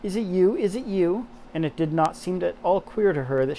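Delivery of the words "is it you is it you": higher, delighted greeting to the robin; Mary greets the robin, delighted; glad cry. Acted. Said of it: "she cried out".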